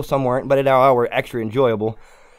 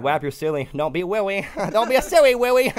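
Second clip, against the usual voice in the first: mock scolding; 5 semitones higher than usual. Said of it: "It's like".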